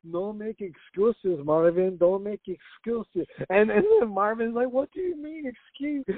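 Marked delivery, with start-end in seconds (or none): 0.1-3.3 slow, dragged-out imitation of a fighter scolding; a lightly done imitation, each word spelled out slowly; Paulo Costa impression. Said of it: "where Paulo Costa is like". 4.7-6.0 high, soft, mock British accent; a lightly done posh British-accent imitation. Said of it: "Like, he's not British, he's Italian".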